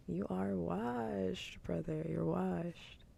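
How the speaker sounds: drawn-out, teasing put-down; playful, slow-dragged taunt; mock dismissal. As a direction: stretch the words out in mock pity. Mock scolding of comedians, repeated.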